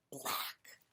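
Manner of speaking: black whispered. A narrator's reading. Reader revealing the black cloud, whispered. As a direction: breathe the word black. Ominous ending word.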